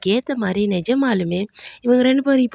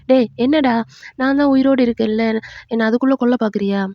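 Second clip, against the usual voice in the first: mock scolding; 3 dB louder than usual. Grandmother scolds grieving grandson.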